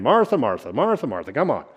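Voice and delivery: mock impatient, repeating the name to hurry her; a playful, exasperated call to get someone moving; half-joking pestering call; impatient nagging. Shown as a demonstration. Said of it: "I don't run around saying".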